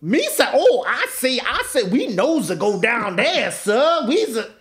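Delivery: high, slow goofy alien voice; bumbling Gungan sidekick voice; Jar Jar impression. Retelling the movie, imitating Jar Jar in a high goofy voice.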